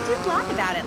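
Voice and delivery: chuckling tease; laughing. Acted. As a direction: laugh as you needle him. Teasing host laughs.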